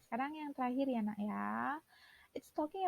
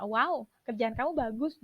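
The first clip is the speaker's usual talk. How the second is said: louder, lively wow before the praise; excited praise; 5 dB louder than usual. Shown as a demonstration. Teacher shows livelier praise with wow. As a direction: praise it like you mean it. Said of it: "lebih enak didengarkannya".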